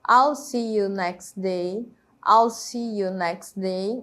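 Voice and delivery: "next day" joined with no T in "next"; slow model sentence, "next" running straight into "day"; dropped T. Shown as a demonstration. Teacher shows T and D merging, slow with T elided. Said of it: "O som do T sumiu".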